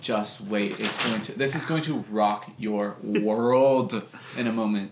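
slow, drawn-out warning to a newcomer. Retold or imitated. Jaded veteran to newbies on the job, slow warning. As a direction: stretch the words out, taking your time.

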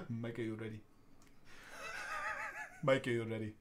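low, quiet, menacing villain voice; supervillain voice. Pretend. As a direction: purr it like a supervillain. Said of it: "That would be my supervillain voice".

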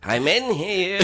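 high, loud call through door. Acted. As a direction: shout that it's taken. Calling out from bathroom.

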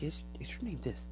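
quiet, measured alien revelation; soft alien voice. Retold or imitated. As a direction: tell them a secret from another dimension. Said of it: "and he's like".

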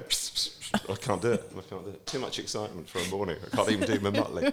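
wheezy hissing snicker breaking into laughter; Muttley laugh. Retold or imitated. Presenter laughing helplessly while trying to do Muttley. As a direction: snicker like the cartoon dog, then give up. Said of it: "laughing like Muttley".

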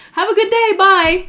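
high, loud sing-song farewell; mock-sweet bye to the pranksters; a sugary, taunting sign-off; sarcastic cheery goodbye. Imagined sign-off to prank kids.

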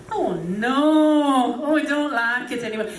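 put-on whingeing British old relative; pessimistic British uncle. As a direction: moan like a gloomy British uncle. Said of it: "had the gift of pessimism".

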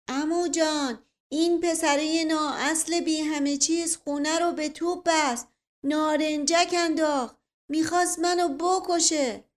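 high, loud, indignant accusation; heated complaint. A narrator's reading. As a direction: plead your case to your uncle in outrage. Nephew heatedly accuses boy to uncle. (شکایت پرخاشگرانه با صدای بلند)

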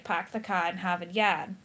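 non-rhotic Boston demo, R's dropped; Boston accent. Shown as a demonstration. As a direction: lightly put on a Boston accent. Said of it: "the Boston accent is stereotypically non-rhotic".

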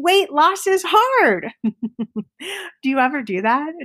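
usual speaking voice

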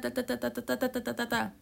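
rapid mock chattering of that. Mocking the listener's endless excuses, quick teasing chatter. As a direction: rattle off that like a nagging listener. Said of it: "That's how you sound".

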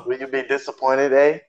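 imitating a Canadian accent. Co-host mimicking a rapper's question, mock Canadian accent. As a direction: put on a light mock Canadian voice. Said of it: "in his Canadian voice".

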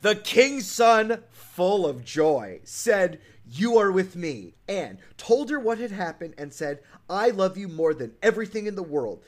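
deliberate, emphatic fairy-tale reading; dramatic story narration. A narrator's reading. Host reading the prince's proposal, dramatic storybook narration. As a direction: proclaim the prince's love in storybook style. Reads the prince's declaration aloud.

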